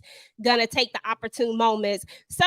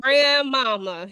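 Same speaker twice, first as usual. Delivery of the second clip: slow; much slower than usual. Shown as a demonstration. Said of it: "Girl, grandmother".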